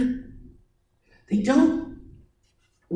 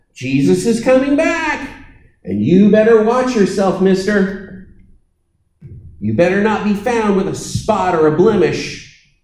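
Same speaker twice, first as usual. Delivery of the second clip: stern threatening warning, a bit louder; wrong accent; 3 dB louder than usual. Shown as a demonstration. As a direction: wag a finger like a scolding preacher. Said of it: "that's the wrong accent".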